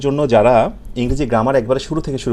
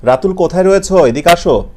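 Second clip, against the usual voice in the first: calling Ratul from across the room, louder and higher; 3 semitones higher, 4 dB louder than usual. Retold or imitated. Teacher imitating someone calling a child over. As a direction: call out like summoning someone. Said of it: "কেউ ডাকলে আমরা বলি না".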